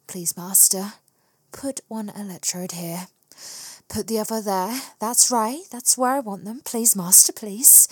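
breathy whimpering plea; sultry whisper. Acted. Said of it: "whimpered and whispered in my sultry voice".

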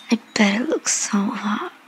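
breathy seductive ASMR whisper; sultry whisper. Acted. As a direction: whisper close to the mic, teasing.

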